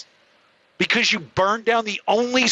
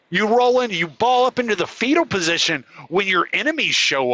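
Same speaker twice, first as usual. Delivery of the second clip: rip into them with real contempt; furious rant at rioters; angry rant; 2 semitones higher than usual. Real, not acted. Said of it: "I get really upset about that".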